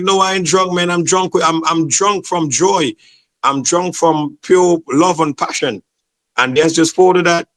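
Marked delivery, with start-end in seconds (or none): 0.0-5.8 higher, slow, joyful insisting; emotional. Retold or imitated. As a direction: gush about being drunk on joy. Insisting he's joy-drunk.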